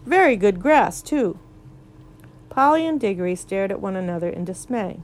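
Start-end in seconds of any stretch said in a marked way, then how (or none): 0.0-1.4 talking through a mouthful; mouth full. Acted. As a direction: cheeks stuffed full of grass. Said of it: "speaking with his mouth full".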